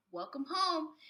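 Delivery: bright, loud happy greeting; cheerful welcome. A narrator's reading. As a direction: greet them warmly and gladly. Family greets new house.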